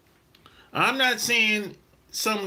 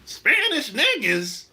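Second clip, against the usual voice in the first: higher, slow, disbelieving question; incredulous echo; 6 semitones higher, slower than usual. Retold or imitated. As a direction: throw it back as a drawn-out question. Echoes the quote in disbelief.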